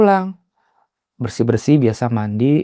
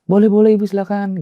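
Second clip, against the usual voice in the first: higher, courteous go-ahead; ramah dan sopan; 7 semitones higher, 3 dB louder, faster than usual. Retold or imitated. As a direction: invite her politely in a lifted voice. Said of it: "ramah, sopan gitu ya". (sopan mempersilakan dengan nada naik)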